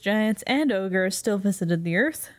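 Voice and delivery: slow fairy-tale narration, over music; storytelling voice. Acted. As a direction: open it like a bedtime story.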